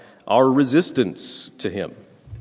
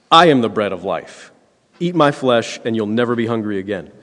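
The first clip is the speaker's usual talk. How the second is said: voicing Jesus; 5 dB louder than usual.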